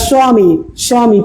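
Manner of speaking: স্বামী as "swa-mi", with a w glide; partly sounded ব. Shown as a demonstration. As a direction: let the ব in স্বামী sound lightly as w. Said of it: "এই যে এরকম".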